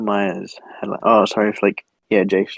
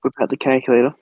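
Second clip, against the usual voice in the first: whisper; 3 semitones higher than usual. Real, not acted. Conspiratorial whisper to co-host.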